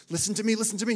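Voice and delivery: loud, high-pitched insistent cry; urgent shouting. Retold or imitated. Teammate interrupting the planning as the snake escapes, urgent shout. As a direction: cut in forcefully before time runs out. Teammate cuts in, time running out.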